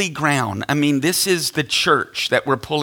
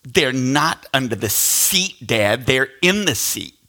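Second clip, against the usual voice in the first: mildly mimicking a sassy teenage daughter; retold smart-aleck backtalk. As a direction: correct Dad pointedly, with mock teenage attitude. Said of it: "she smarts off to me".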